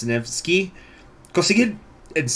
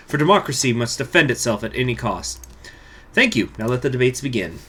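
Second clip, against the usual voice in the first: put-on Russian accent; 2 semitones higher, 3 dB louder than usual. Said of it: "my accent is just, it's a moving target".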